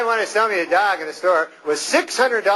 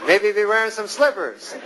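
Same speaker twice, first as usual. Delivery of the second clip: lightly voiced tough-guy dog, quicker; a wiseguy dog talking back, a bit higher; a hint of a gangster dog; tough pit bull voice; 3 semitones higher than usual.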